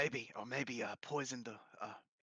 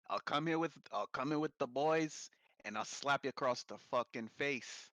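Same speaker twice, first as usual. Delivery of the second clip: mock British thug; 9 dB louder than usual. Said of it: "doing accents by mistake".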